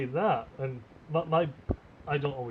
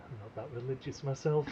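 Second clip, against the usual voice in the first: quoted line; 5 semitones lower, 7 dB quieter than usual. Retold or imitated. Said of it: "It's a Desert Bus reference".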